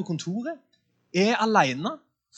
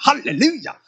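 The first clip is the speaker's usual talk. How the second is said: bright, high, loud halleluja; a joyful cry to the room; exclaimed hallelujah; 5 semitones higher, 7 dB louder than usual. Real, not acted. Preacher cries out to the congregation, high and loud.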